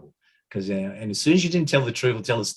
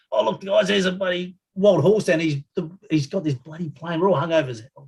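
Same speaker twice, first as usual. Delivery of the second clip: cheery pilot; 8 semitones higher than usual. Retold or imitated. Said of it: "pilot decides that".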